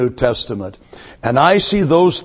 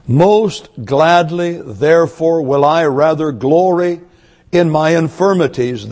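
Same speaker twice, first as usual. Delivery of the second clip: solemn reading. Acted. Preacher reads scripture solemnly.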